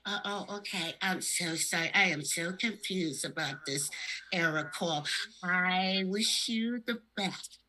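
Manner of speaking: a confused bunny backs away; soft shy stuffed bunny. Pretend. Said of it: "rabbit in outer space".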